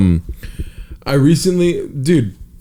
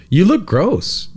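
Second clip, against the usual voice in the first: put-on higher, slow child voice; kid's verdict; 7 semitones higher, much slower than usual. Man imitating a child calling his mustache gross, high and slow. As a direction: drag it out like a blunt little kid. Girlfriend's daughter's remark.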